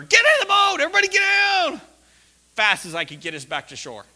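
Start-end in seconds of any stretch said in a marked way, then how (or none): 0.0-1.8 high, loud frantic command; urgent shout. Retold or imitated. To the kids on the boat in the storm, a panicked shout. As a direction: scream the order to everyone. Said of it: "I'm just screaming at her".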